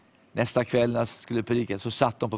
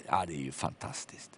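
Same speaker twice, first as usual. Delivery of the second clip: much lower and very soft, hushed; hushed marvel to himself; awed inner thought; 8 semitones lower, 11 dB quieter than usual. Retold or imitated. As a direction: breathe it out in quiet wonder.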